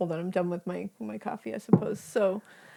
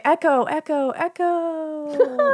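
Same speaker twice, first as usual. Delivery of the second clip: rising echo, each repeat higher; echoing name call; 6 semitones higher, much slower than usual. Retold or imitated. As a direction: call the name like it echoes back. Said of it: "teacher will do roll call".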